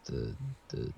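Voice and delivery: halting German in a local American accent; American accent, groping slowly for each foreign word; local American in Germany. Shown as a demonstration. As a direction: fumble through tourist German with an American accent. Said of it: "They're in Germany, but it's someone from our local".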